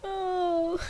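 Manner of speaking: high, loud laughing speech. Real, not acted. Reader cracking up at own voice crack, laughing. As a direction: talk through the giggles.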